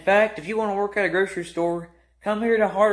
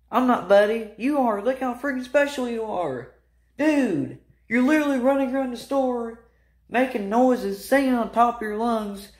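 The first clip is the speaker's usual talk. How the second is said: exasperated rant; 6 semitones higher than usual. Real, not acted. Scolding the odd bagger.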